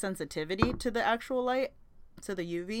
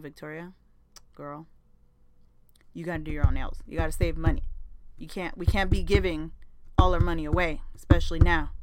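coaxing lecture; 6 dB louder than usual. Retold or imitated. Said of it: "cohort her into doing her own nails".

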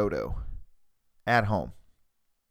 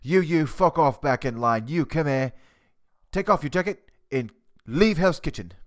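Gordon Ramsay; 3 semitones higher than usual. Pretend. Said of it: "so to finish that impersonation".

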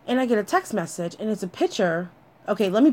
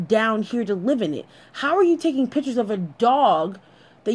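higher-pitched, pointed disbelief; incredulous; 4 semitones higher than usual. Retold or imitated. Woman challenging boyfriend in her head about the dog photo, incredulous. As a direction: question him in disbelief, hitting key words. Acted indignant thought at boyfriend.

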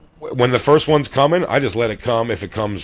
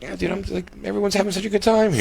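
high, soft giddy voice; put-on happy-go-lucky falsetto lilt; carefree party guy; 9 semitones higher, 4 dB quieter, faster than usual. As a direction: gush lightly like a blissed-out partygoer. Acts out carefree second round.

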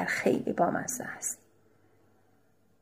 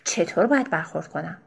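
dry tone. Acted. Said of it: "به لحن خشکی گفتم".

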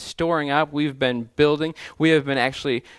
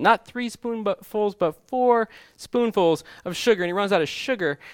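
storyteller climbing in pitch; building excitement; 6 semitones higher than usual. Retold or imitated. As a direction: pile on the spoonfuls with rising glee. Escalating sugar story punchline.

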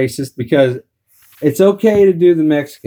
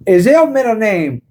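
high, teasing mock African American accent; imitated Black schoolmates' taunt; 7 semitones higher, slower than usual. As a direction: taunt in an exaggerated African American dialect, stretching the name. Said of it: "they be saying shit like".

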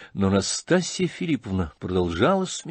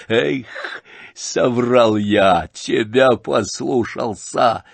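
remorseful; 4 dB louder, much slower than usual. Acted. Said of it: "с глубоким раскаянием".

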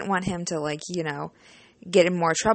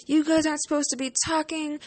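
stern teacher; 6 semitones higher than usual. Retold or imitated. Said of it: "teacher was not having it".

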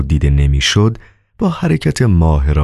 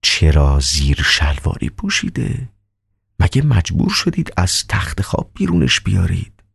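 calm doctor; 3 dB quieter than usual. Acted.

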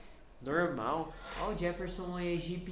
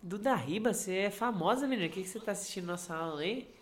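higher, louder, fast gushing hello; excited greeting; 3 semitones higher, 3 dB louder than usual. Real, not acted. Host greets a famous viewer in the chat, gushing excitedly. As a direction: gush over a famous guest.

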